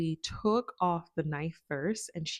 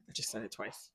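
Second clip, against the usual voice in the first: sheepish whisper, lower; whispered aside; 7 semitones lower, 8 dB quieter, faster than usual. Real, not acted. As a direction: hush it as a guilty aside. Sheepish aside about saying decapitated.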